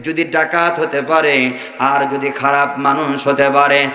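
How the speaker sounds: rousing waz-style oratory with long melodic cadences; fervent preaching. Real, not acted. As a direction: preach to a crowd, drawing out phrase endings.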